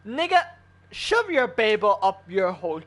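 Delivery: outraged exclamation. Real, not acted. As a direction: jump up in pitch at the start of the rant.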